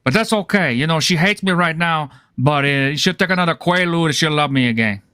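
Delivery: a lightly voiced, slowed Scarface gangster rant; Antonio Montana impression. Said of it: "Antonio Montana".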